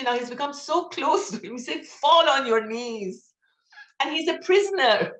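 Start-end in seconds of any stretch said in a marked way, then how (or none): 1.9-3.3 "Fall on your knees" drawn out, high and loud; emphatic quoted urging. Retold or imitated. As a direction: urge it slowly and forcefully, voice raised. Emphatic repeat of quoted advice.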